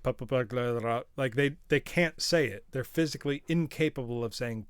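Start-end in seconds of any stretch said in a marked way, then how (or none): 0.0-1.0 "Purple burglar alarm" in Glaswegian, R's dropped and clipped; Glaswegian accent. Shown as a demonstration. Streamer mimicking how Glaswegians say it, in a Glaswegian accent. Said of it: "which for a Glaswegian is like".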